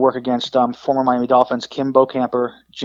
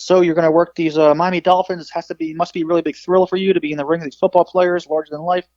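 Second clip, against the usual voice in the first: lightly voiced hype interviewer, pitched up; 4 semitones higher than usual. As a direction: imitate an interviewer talking up the big match. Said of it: "Footy's interview him, he says".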